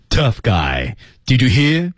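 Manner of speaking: 把力量用在气上往上推; 张开口腔，问句句尾高高扬起; 气息上推. Shown as a demonstration. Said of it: "用在这个气上，推上去". (气足，问句上扬)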